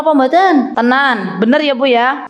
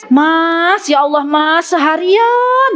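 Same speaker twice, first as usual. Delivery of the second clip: higher, drawn-out complaining excuse; wife dodging her husband's request, higher and slow; excuse-making wife; 3 semitones higher, much slower than usual. Retold or imitated. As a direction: dodge the husband with a tired excuse. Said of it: "nggak boleh ngeles".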